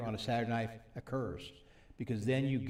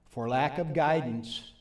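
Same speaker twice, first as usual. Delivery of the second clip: unhurried, deliberate scripture reading, phrase by phrase; slow reading. Real, not acted. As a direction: read the verse slowly, with pauses. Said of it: "I'll read it slowly".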